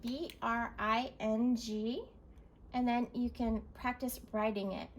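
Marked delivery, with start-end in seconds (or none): 0.0-2.0 slow letter by letter; spelling out. Shown as a demonstration. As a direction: spell each letter slowly. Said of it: "So spell it".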